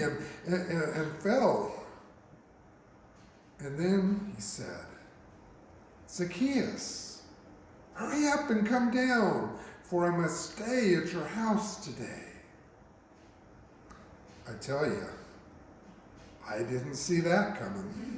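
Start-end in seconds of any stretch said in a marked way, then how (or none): 6.1-12.2 high-pitched call up into a tree. Acted. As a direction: call him down, pitched high at first then easing. Jesus calls up the tree.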